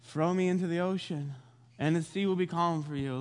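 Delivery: resigned, listless offer; not caring anymore. Retold or imitated. Jonah tells sailors to throw him over, resigned and indifferent. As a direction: say it as if past caring, lightly acted. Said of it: "he doesn't care anymore".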